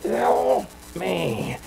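soft, choked, drawn-out plea; muted mock scream. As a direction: imitate a scream smothered by tubes. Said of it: "he was screaming".

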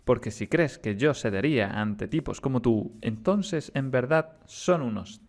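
measured, dramatic story reading; lightly acted dialogue narration; game dialogue read-aloud. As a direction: read the villain exchange with deliberate pauses. Reads game dialogue aloud in character.

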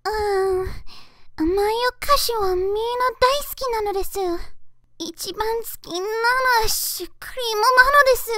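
put-on fast high sweet girl voice; high cute anime girl. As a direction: chirp the lines like a sweet child. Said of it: "that was all my voice acting".

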